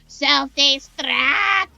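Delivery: slow, loud robotic countdown voice; drawn-out mechanical alarm voice; robot self-destruct. Acted. Robot announcing its own self-destruct, slow and loud.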